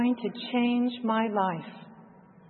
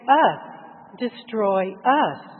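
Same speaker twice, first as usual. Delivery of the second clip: retold shout; 4 dB louder, much slower than usual. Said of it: "what he shouted at Jesus".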